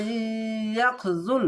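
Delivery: slow teaching demo of the word; very slow recitation. Shown as a demonstration. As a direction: draw ইয়াখজুল out syllable by syllable. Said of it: "দেখেন".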